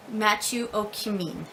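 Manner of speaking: Matthew O'Cumming ending in "kih-MEEN"; careful name attempt. Shown as a demonstration. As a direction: stress the long last syllable of O'Cumming. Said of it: "I think that's correct".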